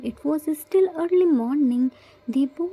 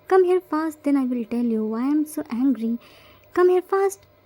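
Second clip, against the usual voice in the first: angry shout. Acted. Grandma shouting at Yoongi to come down, angry.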